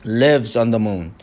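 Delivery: Lives on the moon very slow, lives stressed; slow stressed phrase. Shown as a demonstration. 선생님이 Lives on the moon 강세를 천천히 시범. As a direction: drag out Lives on the moon, leaning on lives. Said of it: "강세가 있죠".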